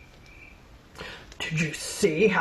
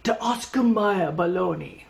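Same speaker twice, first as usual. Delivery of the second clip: put-on German accent. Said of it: "fake German accent, like Mister Koenig's".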